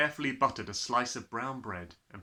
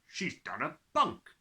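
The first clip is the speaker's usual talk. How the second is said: muttered to himself; 3 semitones higher, 4 dB louder, slower than usual. A narrator's reading. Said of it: "Mister Trilby said to himself".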